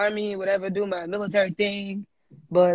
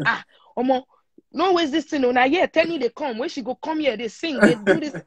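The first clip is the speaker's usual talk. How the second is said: pitched-up mock excitement, urging her on; hyped producer; 5 semitones higher than usual. Producer urging her after hearing the song, raised excited voice. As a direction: play the producer pushing her not to waste it.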